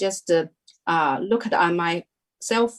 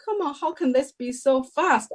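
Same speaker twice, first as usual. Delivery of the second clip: retold shock; 6 semitones higher than usual. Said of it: "like, shocked".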